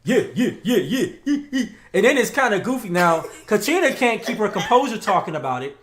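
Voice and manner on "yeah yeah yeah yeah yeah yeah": hyped up. Retold or imitated. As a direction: pump yourself up before the dunk. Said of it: "LeBron comes out there hype".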